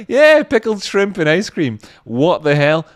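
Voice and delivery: high, loud mock disbelief; disgusted drunk. Mimicking a drunk reacting to the food combo. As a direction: ham up the jakey's outrage. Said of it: "It's like".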